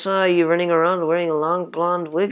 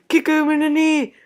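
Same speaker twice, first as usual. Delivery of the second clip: cheering; 9 semitones higher, 5 dB louder than usual. Acted. Cheering at contest.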